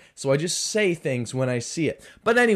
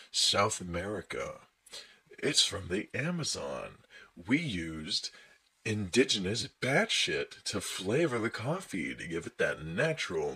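pretentious coffee pitch; 7 semitones lower, 7 dB quieter than usual. Acted. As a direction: savour each word softly, low and pompous. Mocks pretentious coffee sales pitch.

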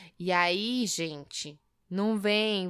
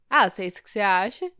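shrugging off; 4 dB louder than usual. Retold or imitated. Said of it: "jogada de ombro".

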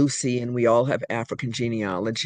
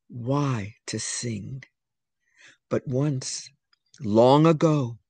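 slow, measured poem reading; poem recitation. Acted. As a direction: read it like a solemn creation myth. Reads her poem aloud.

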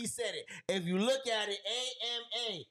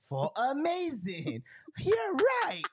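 Dora voice; 4 semitones higher, 3 dB louder, slower than usual. Retold or imitated. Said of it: "She be like".

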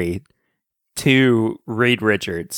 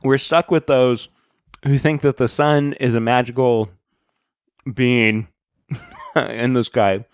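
talking while chewing crackers; crunching crackers. Real, not acted. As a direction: mouth full of crackers. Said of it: "sorry, I'm also eating crackers".

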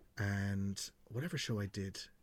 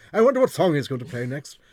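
higher, louder mock-curious listener voice; hammed-up musing fan, louder; mock pondering listener; 6 semitones higher, 14 dB louder than usual. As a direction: send up a rapt fan wondering aloud. Mocking imagined chin-scratching listeners.

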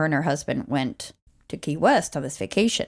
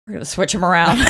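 laughing mock pitch; 5 dB louder, faster than usual. Mocking filmmakers, laughing.

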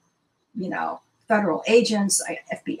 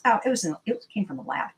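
flippant; faster than usual. Retold or imitated. Neighbor casually reveals an investigator's finding, flippant. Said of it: "she said very flippantly".

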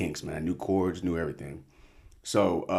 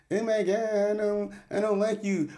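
put-on French accent; 13 semitones higher than usual. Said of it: "I don't know how to do a French accent".

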